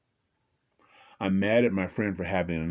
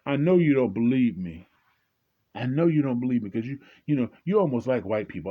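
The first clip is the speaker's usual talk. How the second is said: imitating tearful friend; 5 semitones higher, 3 dB louder than usual. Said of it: "his eyes are full of tears".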